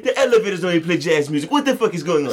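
high put-on French accent, hammed-up; high exaggerated fake French voice; mock French accent. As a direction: play a Frenchman griping about missing jazz. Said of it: "I thought that was French the whole time".

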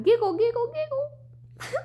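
breathy, high giggling words; giggly voice. Acted. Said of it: "I don't know if you're gonna do it like that".

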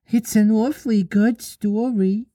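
put-on high, sing-song little boy; childish wishful voice; lost boy interrupting. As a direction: pitch it up as a child butting in. Nibs voiced.

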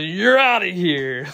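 drawn-out umpire's ejection call; mock an angry ref, stretching the call; pissed-off ref. Ref throwing a catcher out of the game, pissed off. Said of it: "got pissed off and said".

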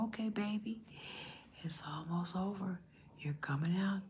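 gentle, hushed encouragement; soothing. Retold or imitated. Talking to her baby as it is being born, soothing. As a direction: softly reassure a baby.

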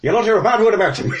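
put-on Irish accent. Player echoes the Irish NPC.

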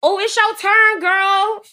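lilting, sing-song imitation of a sassy girlfriend; high, singsong put-on voice; mock black woman voice. Date mimicking how he thinks black women talk, sing-song. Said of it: "imitating what he felt like black women was".

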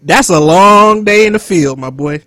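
slow, loud orders through giggles; mock overseer, laughing. Continues mock boss, laughing.

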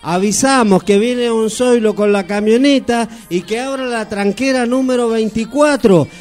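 slow, drawn-out announcer reading a notice; mock rural radio message, slow and deliberate; slow country radio call. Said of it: "le dice".

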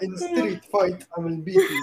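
put-on slow spoof of a Peshawari accent; mock Peshawari-accented challenge. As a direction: mimic a Peshawari accent, drawn out. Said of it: "this is Peshawari accent".

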